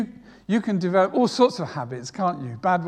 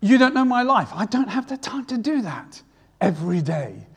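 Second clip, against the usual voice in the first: raised, protesting listener voice; imagined objector; 4 semitones higher, 4 dB louder than usual. Retold or imitated. Congregant objecting to the preacher, mock protesting. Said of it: "now you might say".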